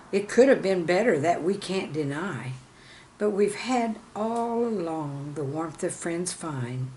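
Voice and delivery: measured, rhythmic poem reading; poem recital. Acted. Teacher reading her poem to viewers, rhythmic recital. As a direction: recite each line as verse.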